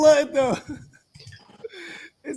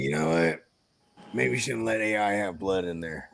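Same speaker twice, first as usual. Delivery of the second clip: lower, softer imagined thought; musing aloud; 8 dB quieter than usual. Pretend. Imagining the AI's makers deciding on blood, musing quietly. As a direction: muse it low and quietly to yourself.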